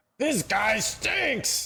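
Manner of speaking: very high, swooping, bouncy, squeaky voice. Quoting a line while asking about a voice: SpongeBob voice. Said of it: "in the, uh, SpongeBob voice?".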